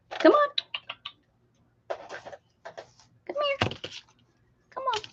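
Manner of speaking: hushed, breathy high call; whisper-coax the cat nearer; soft high coax. Real, not acted. Owner coaxing the cat in a hushed high voice.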